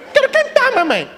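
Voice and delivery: put-on high kid's insistent singsong; little boy voice. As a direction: drag it out like a small kid.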